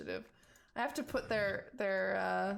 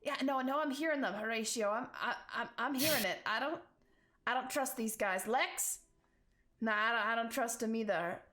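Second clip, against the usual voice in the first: muttering thug. Acted. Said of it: "muttering and swearing".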